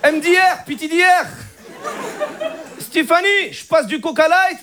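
put-on high-pitched Moroccan Arabic accent. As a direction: pose as French with a thick Moroccan accent. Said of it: "t'as l'accent".

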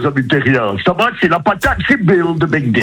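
put-on alien TV host voice; Bill voice. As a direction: greet the earthlings in character. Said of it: "prendre une autre voix comme vous avez fait au début".

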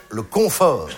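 "confort" slowly, with CON leaned on; stress on CON. Shown as a demonstration. Comic naming the home full of junk, CON stressed in "confort". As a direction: draw out "confort", stressing its first syllable CON. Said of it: "la première syllabe est très claire".

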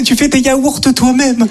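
slow, drawn-out gossip tone; slow mock wonder; mock amazed gossip. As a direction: stretch it out in fake awe. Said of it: "c'est plutôt".

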